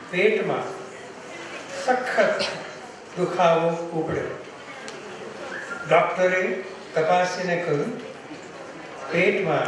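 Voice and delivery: measured Gujarati recitation with pauses between phrases; poem recitation. Acted. Poet reciting a short Gujarati poem to listeners, measured recitation. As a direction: recite it phrase by phrase, pausing after each.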